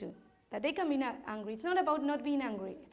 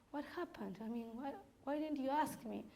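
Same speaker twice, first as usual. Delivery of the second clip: held back, quiet; 6 dB quieter than usual. Retold or imitated. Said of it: "I wanted to shout at her, I didn't. I just say".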